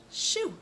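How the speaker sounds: shoe whispered high with a hushed sh. Shown as a demonstration. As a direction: breathe out shoe. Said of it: "a messier kind of sound".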